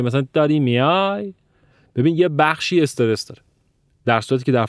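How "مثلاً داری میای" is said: put-on Isfahani accent. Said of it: "تو اصفهانی یه چیزی شبیه به این میگه".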